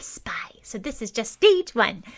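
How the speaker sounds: hushed spy-talk; a girl sharing her spy training in secret; secretive whisper. A narrator's reading. Girl confides spy plans.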